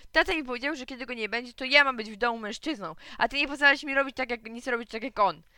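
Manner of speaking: high, loud outraged protest; indignant shouting. A narrator's reading. Boy protesting to mother, loud indignant shouting. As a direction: insist furiously on father's words.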